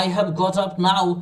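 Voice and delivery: hesitant, slow beginner phrasing; slow halting try. Shown as a demonstration. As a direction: sound like a first-day learner. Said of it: "এভাবে করে বলতে পারেন".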